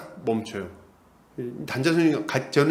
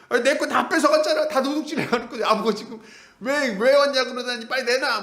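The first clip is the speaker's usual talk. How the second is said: much higher whiny complaint, imitating a robbed man; whining; 8 semitones higher than usual. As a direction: play him as a whiner demanding his stuff back. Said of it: "징징거리는 거죠".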